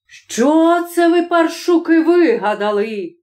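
put-on angry father scolding noisy children; furious roar. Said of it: "загримав несамовито прокурор".

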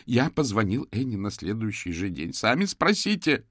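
high, loud, slowed cry; shouted out, shaking. Acted. Shaking suspect shouts at the detectives to check. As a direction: hurl it at them, trembling. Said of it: "выкрикнул Джером, трясясь".

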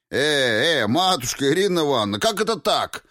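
высоко и быстро, возмущённо; всплеснуть руками голосом, с возмущением. A narrator's reading. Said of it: "возмутился Яковлев". (возмущённо и торопливо)

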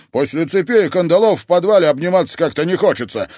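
quick, loud retort; snapping back. Acted. Alf snaps at his captor brother, loud and quick. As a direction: bite the words back at him. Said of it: "огрызнулся Альф".

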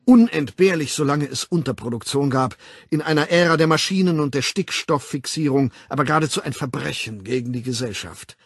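emphatic public lecturer; lecturing World Controller. Acted. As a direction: hold forth with authority, punching key words. Weltaufsichtsrat doziert. (dozierend, nachdrücklich)

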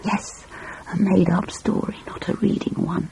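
put-on soft, secretive child's whisper; conspiratorial whisper. A narrator's reading. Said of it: "whispered Elizabeth conspiratorially".

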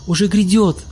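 high excited shout. A narrator's reading. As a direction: call it out joyfully. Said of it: "закричал Олег".

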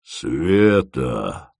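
low, drawn-out tender call; tender roar. Acted. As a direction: roar her name with tenderness. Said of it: "со всевозможной нежностью заревел".

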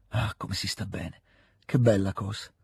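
soft, slow, low murmur of delight; tender contentment. A narrator's reading. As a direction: savour the moment quietly. Petia felice e commosso con Denisov. (contentezza commossa, sommessa)

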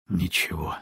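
low, soft sighing word; tired woman sighing to the girl; weary sigh. A narrator's reading. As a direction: breathe it out wearily. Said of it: "снова вздохнула Люба".

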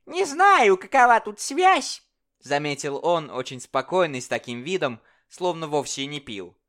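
very high, loud calm jester; scheming jester. Acted. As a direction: speak as the sly, sober jester. Jester voiced in story.

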